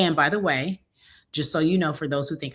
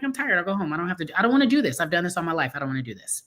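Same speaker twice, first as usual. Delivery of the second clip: tired auntie; 2 semitones higher, faster than usual. Retold or imitated. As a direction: lightly play a fed-up auntie going home. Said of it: "I'm just like an auntie".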